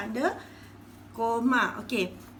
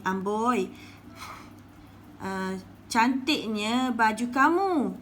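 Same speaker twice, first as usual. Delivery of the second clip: admiring exclamation; slower than usual. Shown as a demonstration. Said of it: "ni adalah tanda seruan".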